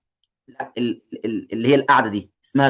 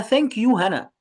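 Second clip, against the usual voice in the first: put-on girl's line; 4 semitones higher, much slower than usual. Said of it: "قالت لها".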